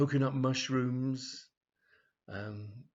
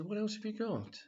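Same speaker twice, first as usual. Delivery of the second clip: higher, coy question; flirty customer; 11 semitones higher than usual. Acted. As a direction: fish for something naughty. Brenda asks the assistant.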